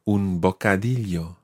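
"bocadillo" with the ll said "ly"; slow "bocadillo", crisp ly sound; double L as "ly". Shown as a demonstration. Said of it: "Watch the double L sound".

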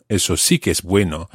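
"sí" lifted then falling away; stress on sí. Shown as a demonstration. Teacher's example of emphasis, stressing sí. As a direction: lean on "sí" as emphasis. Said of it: "used for emphasis".

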